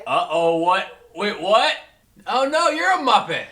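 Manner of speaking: high, loud puppet voice; alarmed puppet squeal; Muppet voice. Acted. Turned into Muppets.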